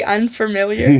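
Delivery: "unfamiliar" with an extra R, un-fer-miliar; mispronounced "unfamiliar". Retold or imitated. Asking how Moff Gideon says it, "unfamiliar" with an added R. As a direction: slip an R into the first part of "unfamiliar". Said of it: "he mispronounces the word unfamiliar".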